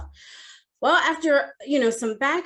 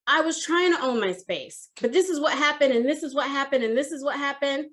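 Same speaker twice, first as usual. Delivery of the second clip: flustered self-defense; 4 semitones higher than usual. Retold or imitated. Defending herself to manager, gets cut off.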